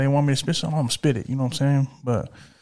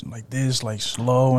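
slow monotone voice; much slower than usual. Shown as a demonstration. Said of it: "I would always speak in, like, a little monotone".

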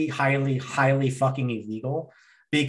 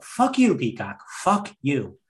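angry shout; slower than usual. Real, not acted. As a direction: yell it at the app. Angry rant at streaming app.

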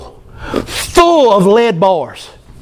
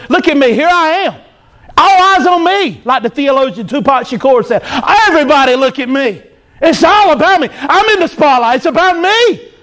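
boastful; 4 semitones higher than usual. Retold or imitated. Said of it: "That's what pride does".

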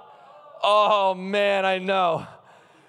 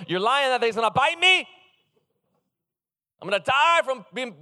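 refusing God. Pretend. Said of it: "And I'd be like".

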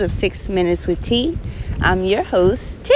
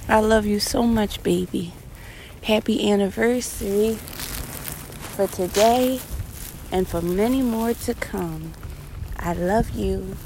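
tender; 5 dB quieter than usual. Real, not acted. Closing love declaration to wife.

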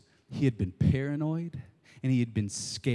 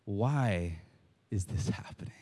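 hushed inner question; 5 semitones lower, 6 dB quieter than usual. Acted. Saul asking himself, whispered.

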